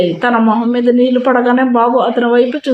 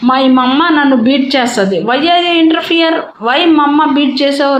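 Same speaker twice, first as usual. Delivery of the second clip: put-on indignant child; 3 semitones higher, slower than usual. Son indignantly confronting Abhi over hitting mama. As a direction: demand an answer, stretched out. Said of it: "రోషంగా అన్నాడు".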